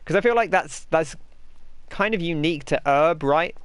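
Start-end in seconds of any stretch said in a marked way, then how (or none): 2.9-3.2 "herb" said as "erb"; H-less herb. Shown as a demonstration. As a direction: leave the H off "herb". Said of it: "you don't cut the H".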